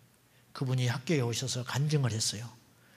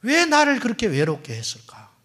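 loud lament; 7 semitones higher, 8 dB louder than usual. Real, not acted. Preacher cries out a question.

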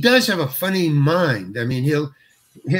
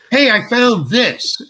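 bright raised voice, slowed and drawn out; eager discovery; 7 semitones higher, 3 dB louder, slower than usual. Retold or imitated. Actor proudly presenting a find to the other actors, eager. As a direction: show off your find like a proud kid. Actor retells his improvised line.

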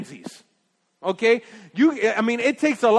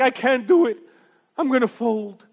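mock weakness; 4 semitones higher, 5 dB louder than usual. Mocking believer giving in to temptation.

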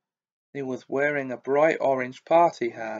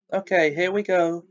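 bitter; 5 semitones higher, 4 dB louder than usual. A narrator's reading. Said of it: "said Nearly Headless Nick bitterly".

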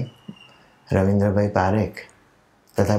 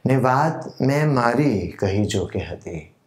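slow, measured verse with lilting, drawn-out phrase ends; ghazal recitation. Acted. Poet presenting his own ghazal to literature lovers, measured recitation. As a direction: recite it like a mushaira poet, letting key words swell and fall.

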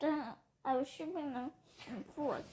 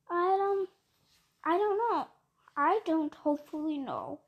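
louder, urgent plea; pleading Lorax; 4 dB louder than usual. Acted. Lorax pleads with the Once-ler about the birds, loud and urgent. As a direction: beg him to see the harm.

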